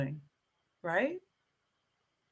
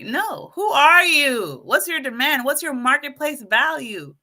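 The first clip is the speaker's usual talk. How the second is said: emphatic challenge; 4 semitones higher, 4 dB louder than usual. Real, not acted. Rallying the audience.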